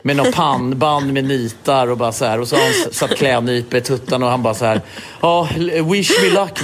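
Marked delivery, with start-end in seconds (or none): 5.2-6.6 mock brave husband. Husband psyching himself up.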